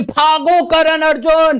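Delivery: lightly hammed-up plea to run; a hint of a mother crying out; mock mother's cry. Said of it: "वो चिल्ला रही है".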